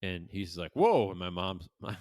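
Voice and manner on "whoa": loud, high mock yelp of alarm; sudden raised "whoa"; acted startled cry. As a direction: imitate someone losing their footing. Dad slipping on the roof.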